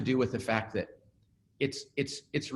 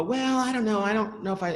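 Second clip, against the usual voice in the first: high-pitched mock protest; imitating a doubtful employee; lightly voiced, higher-pitched hedging; reluctant employee; 8 semitones higher than usual. Employee balking at kindly correction.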